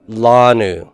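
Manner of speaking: Lanu said carefully, stress on the last syllable; slow Hebrew reading. Shown as a demonstration. Teacher modelling Hebrew word for students, careful pronunciation. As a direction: sound out Lanu for the class. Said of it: "So this is pronounced how?".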